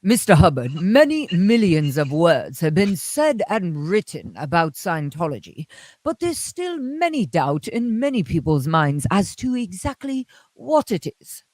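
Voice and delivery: lightly voiced formal TV interviewer. Imitating the Hitchman interviewer from the old video. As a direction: ask it like a stiff old broadcast host. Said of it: "I totally change into his voice".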